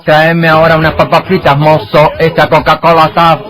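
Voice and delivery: mock the singers' twisted way of talking; mock Bahian accent. Parodying the Polish band's singers, in a loud mock Bahian accent. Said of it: "acompañado de un estilo de deformidad de vocalización".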